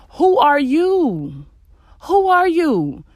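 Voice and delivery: drawn out, rising disbelief; slow incredulous challenge. Acted. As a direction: ask it slowly, like a call-out. Scolding rhetorical question.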